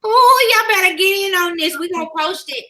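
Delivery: church mother giving out announcements; lightly put-on church mother, unhurried and folksy; good mother voice. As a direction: read the notices like a church mother addressing her babies. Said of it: "put on my good mother voice".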